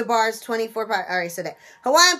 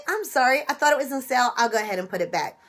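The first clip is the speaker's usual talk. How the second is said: kindly apology; faster than usual. Shown as a demonstration. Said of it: "Just kindly say".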